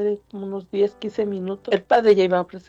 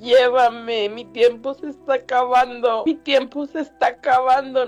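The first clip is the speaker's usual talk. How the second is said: higher, anguished plea to dad; retold pleading cry; 4 semitones higher than usual. Son begging his father to take him to church, retold pleading cry. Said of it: "gritaba a su papá".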